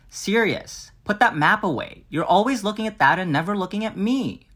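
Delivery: high, hammy fanfic drama; dramatic reading. Acted. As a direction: read it like overwrought melodrama. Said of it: "a dramatic reading of a fanfic".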